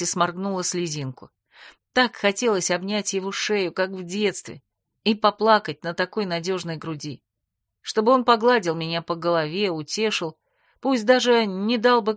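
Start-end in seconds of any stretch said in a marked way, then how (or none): none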